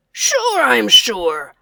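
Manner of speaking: mild loud angry retort; angry roar. Acted. Large bear answering tiny bear, mild angry roar. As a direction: bark it back angrily. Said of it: "roared the large bear angrily".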